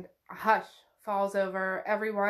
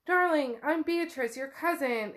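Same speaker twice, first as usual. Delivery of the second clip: put-on higher, gushing older relative; fond cousin; 4 semitones higher than usual. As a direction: greet her sweetly, like a doting cousin. Cousin greets Rowan fondly.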